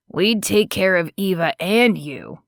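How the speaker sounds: gently pleading offer. Acted. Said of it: "A pleading tone was thick in his voice".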